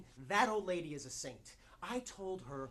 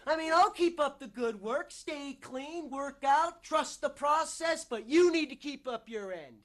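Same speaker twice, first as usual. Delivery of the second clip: loud, high, insistent bargaining; worked-up demanding; 8 semitones higher, 9 dB louder than usual. Acted. Demanding they keep up their end, loud and insistent. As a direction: press hard, pitch climbing and volume up. Character demands his side be kept.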